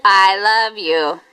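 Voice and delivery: tender. Shown as a demonstration.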